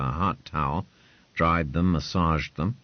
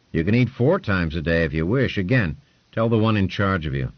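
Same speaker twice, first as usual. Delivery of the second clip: a slightly louder, brisk lordly voice; lordly patron; 2 semitones higher, 4 dB louder than usual. Acted. Lord Ponce quizzing Hugh, a lightly voiced, brisk lord. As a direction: talk down like a lord testing a servant.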